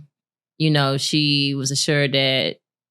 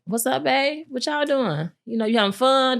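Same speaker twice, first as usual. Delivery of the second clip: lightly voiced husband, high and chirpy through a laugh; husband's sweet check-in; 9 semitones higher than usual. Wife imitating her husband's cheerful daily check-in, laughing.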